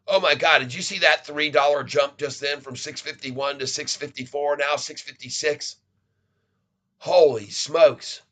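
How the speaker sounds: excited disbelief at the jump; adrenaline rush. Real, not acted. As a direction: marvel at the sudden spike. Sudden price jump live.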